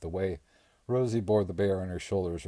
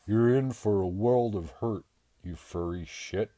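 angry threat; 2 semitones higher than usual. A narrator's reading. Bradley threatening the bear.

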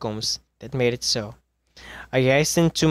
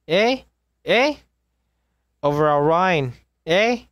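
sharp high rising eh; desperate eh; 4 semitones higher than usual. Acted. Trapped man begging his captor with high rising questions. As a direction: pitch each eh up, pleading.

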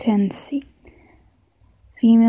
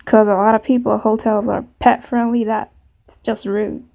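put-on southern accent. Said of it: "maybe a southern accent".

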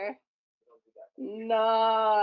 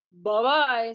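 a louder, friendly monster goodbye; fluffy monster; 5 dB louder than usual. Acted. The fluffy monster leaving, a louder goodbye. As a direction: boom it out like a friendly beast. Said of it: "said the fluffy monster".

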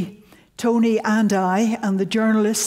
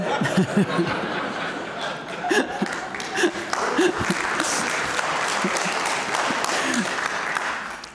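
laugh; 5 semitones higher than usual. Real, not acted. Laughs mid-sentence after audience reaction.

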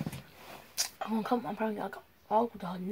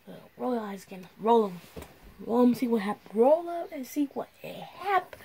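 stern mom, louder, half laughing; 7 dB louder than usual. Pretend. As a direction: threaten with a laugh breaking through. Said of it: "put my mom voice on".

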